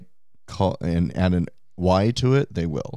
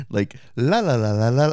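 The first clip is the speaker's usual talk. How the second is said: sing-songy lilt. Shown as a demonstration. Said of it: "their inflection is very sing-songy".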